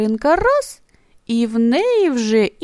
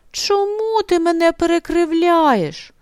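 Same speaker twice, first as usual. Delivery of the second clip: offended hare; 7 semitones higher than usual. A narrator's reading. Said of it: "ображається заєць".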